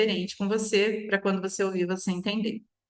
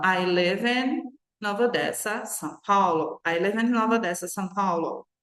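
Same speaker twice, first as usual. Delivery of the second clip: fast take. Shown as a demonstration. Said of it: "rápido".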